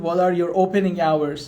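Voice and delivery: slow, clear repeat. Shown as a demonstration. Teacher repeating slowly for a student. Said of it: "خانم ویدا دلاوری".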